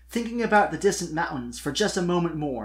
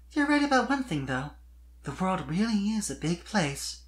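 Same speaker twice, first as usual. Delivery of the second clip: put-on higher young mare's voice, sure of herself; earnest declaration; 6 semitones higher than usual. A narrator's reading. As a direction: declare it firmly, to lift him up. Sweetie's voice.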